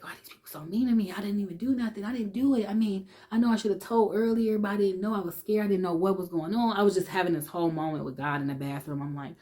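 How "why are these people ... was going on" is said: higher, fast, upset pleading; distressed pleading. Retold or imitated. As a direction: let the hurt rush out to God. Child pleading with God, upset.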